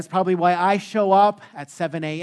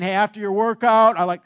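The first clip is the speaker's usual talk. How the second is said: lightly imitated gym trainer, a bit louder; Jeremy; 3 semitones higher, 5 dB louder than usual. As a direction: put on a hint of the muscly trainer. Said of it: "that's how he talks".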